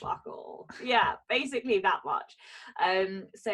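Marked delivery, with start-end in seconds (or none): 0.0-0.7 whispered. Real, not acted. Admitting no marketing done.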